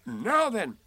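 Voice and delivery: high, loud rise and fall; ready-now donkey voice; Eeyore. A narrator's reading. Eeyore ready to hear Piglet, loud donkey.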